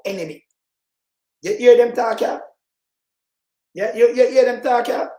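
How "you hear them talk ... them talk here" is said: loud call-out. Real, not acted. Commentator calling out to viewers.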